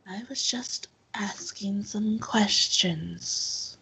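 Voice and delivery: soft start, measured, lightly voiced self-defence; defensive temple questioner. Temple woman defending her questions to the man, softly defensive. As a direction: mildly justify yourself in a restrained character voice.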